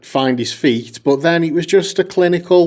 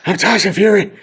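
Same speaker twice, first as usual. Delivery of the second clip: put-on botched Mancunian accent that lands Irish; Tyson Fury; 6 semitones higher than usual. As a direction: attempt Manchester, slip into Irish. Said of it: "that was Irish as well".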